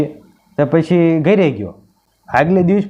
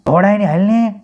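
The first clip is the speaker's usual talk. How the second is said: raised, high call to mom; child yelling for mom; 6 semitones higher than usual. Acted. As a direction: call out from the toilet. Teaser clip of child calling.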